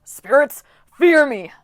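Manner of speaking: roared battle cry, loud and high; bellowing. Acted. Coach roaring at the storm spirits, loud battle bellow. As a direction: bellow it like a charging satyr. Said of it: "Hedge bellowed".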